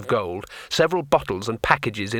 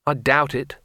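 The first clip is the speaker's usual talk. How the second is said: hopeless; 3 semitones higher than usual. Acted. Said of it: "said Rincewind hopelessly".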